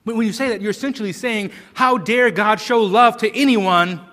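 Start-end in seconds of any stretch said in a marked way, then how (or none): 1.7-4.0 loud mock accusation; mock indignation. Preacher voicing those who question God's choice, mock-indignant. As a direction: act out an affronted challenge, raising the voice. Acted accusation against God.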